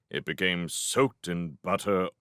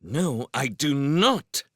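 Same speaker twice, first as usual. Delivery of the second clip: slow, higher, emphatic denial; sharp retort; 5 semitones higher, 4 dB louder, slower than usual. A narrator's reading. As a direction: deny it indignantly, word by word. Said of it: "Sophie retorted".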